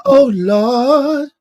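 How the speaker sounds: high, loud, drawn-out mock cry; mimicked exclamation. Streamer imitating what chat hit him with, high and loud. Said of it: "Y'all hit".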